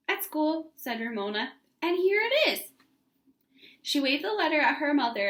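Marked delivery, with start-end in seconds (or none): 0.1-2.7 put-on proud child. A narrator's reading. Ramona proudly shows letter.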